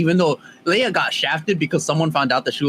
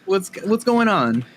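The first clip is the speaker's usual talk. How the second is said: meme voice; 5 semitones higher, much slower than usual. Retold or imitated. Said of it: "put the meme of the".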